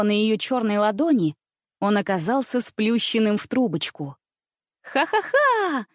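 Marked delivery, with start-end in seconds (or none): 4.8-5.9 put-on high, slow, ringing girlish laugh. A narrator's reading. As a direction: laugh out in delight. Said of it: "звонко рассмеялась княжна". (звонкий смех)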